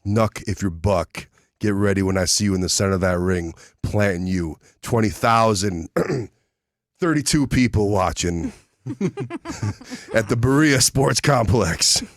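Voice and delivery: growling pro wrestler trash talk; wrestling promo. Acted. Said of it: "let's cut a promo".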